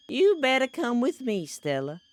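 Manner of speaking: lightly aged southern mother; a touch older, a hint of southern; mother calling her daughter's friend, lightly aged voice; older woman voice. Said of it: "I'm trying to make her sound older".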